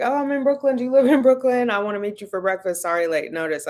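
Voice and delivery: lightly voiced cousin inviting herself to breakfast; imitating cousin. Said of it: "But she was like".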